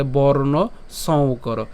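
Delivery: slow, careful "বর্ণ সং কর"; joined pronunciation. Shown as a demonstration. Teacher puts the pieces together for learners, slow careful demonstration. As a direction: draw out "বর্ণ সং কর" as one phrase. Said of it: "একসাথে যদি উচ্চারণ করি".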